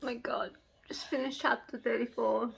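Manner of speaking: soft, breath-only whisper; stunned whisper. Real, not acted. Reader who just finished the chapter, stunned whisper.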